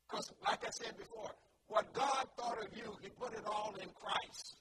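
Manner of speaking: punchy, spirited sermon delivery; emphatic preaching. Acted. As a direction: preach it with conviction, leaning on key words. Preaches with rising force.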